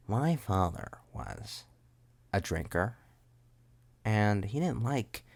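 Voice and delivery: slow, measured storytelling drawl; impression demo. Shown as a demonstration. Showing how the character talks, slow put-on voice. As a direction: draw it out with pauses. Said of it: "you gotta talk like this".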